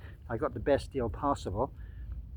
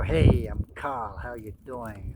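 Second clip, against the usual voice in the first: slow, drawn-out mock greeting; Carl; 3 semitones lower, slower than usual. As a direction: lightly imitate a laid-back YouTuber saying hello. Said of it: "Carl's very funny".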